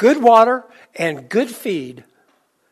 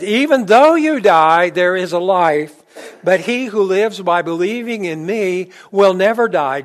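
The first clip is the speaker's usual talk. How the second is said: emphatic preaching; 5 dB louder than usual. Acted. Preacher proclaims Jesus' promise.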